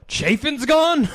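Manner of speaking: high, slow squeal of disbelief; mock shocked fan. Fan hearing the trade news a day late, squealing in mock shock. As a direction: gasp it out like a stunned fan.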